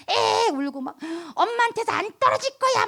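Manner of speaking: mock child sob; crying toddler. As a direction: imitate a three-year-old crying to cling to mom.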